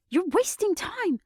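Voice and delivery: high, loud, slow shout; furious shout, slowed and pushed. A narrator's reading. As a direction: yell at him to get out of the way. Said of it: "she shouted instantly".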